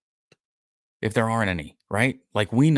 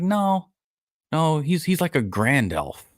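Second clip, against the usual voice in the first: higher, eager mock hobbit protest; 10 semitones higher, slower than usual. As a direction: squeak it out like a little hobbit insisting. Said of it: "And they're like".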